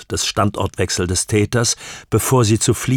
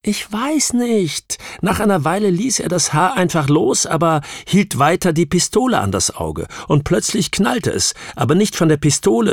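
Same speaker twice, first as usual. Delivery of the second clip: distressed witness, reliving it; 10 semitones higher than usual. Acted. Witness reliving the shot for her questioner, high and tense.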